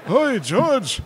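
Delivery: put-on high, loud old Jewish man accent. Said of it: "my old man Jewish accent".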